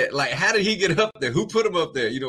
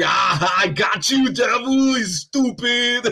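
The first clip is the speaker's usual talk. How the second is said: loud, gloating taunt; gloating mock cry; 4 semitones higher, 3 dB louder, slower than usual. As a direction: crow over the trick, half joking. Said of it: "And like".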